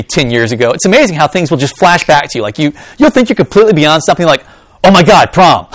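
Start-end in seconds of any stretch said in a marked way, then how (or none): 4.8-5.7 mock cringe. Cringing memory of past mistake.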